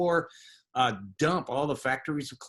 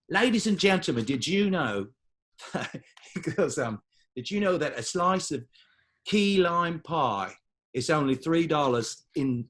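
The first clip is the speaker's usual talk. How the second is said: imitating Manchester accent. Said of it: "I'm gonna do one of his jokes as him".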